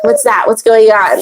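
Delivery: mildly exasperated mock questioning; annoyed husband. Husband grilling wife about the incense, annoyed. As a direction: imitate a husband pestered by the smell. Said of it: "He gets so annoyed".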